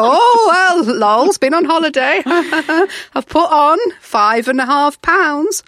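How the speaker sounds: mock cheerful confession; sheepish laughing confession. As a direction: confess it with a guilty giggle. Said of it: "So I had to go".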